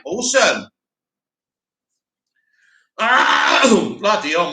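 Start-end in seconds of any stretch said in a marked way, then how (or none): 3.0-3.9 loud, rough "ah" to clear the throat; throat-clearing groan. Real, not acted. Host troubled by his throat tonight, groaning as he clears it. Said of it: "my throat tonight".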